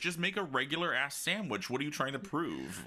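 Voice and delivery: high, fast, exasperated protest; exasperated rant. Acted. Ranting at whoever makes a too-big sandwich, exasperated. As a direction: demand answers in mock outrage, pitch coming down.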